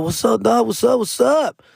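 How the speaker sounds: high, hyped back-and-forth hello; eager, rapid-fire bro greeting; excited greeting. Retold or imitated. Acting excited phone greeting back.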